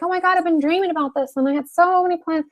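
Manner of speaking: high-pitched, quick mock gushing; gushing girlfriends. Imitating girlfriends who dreamed of weddings, gushing.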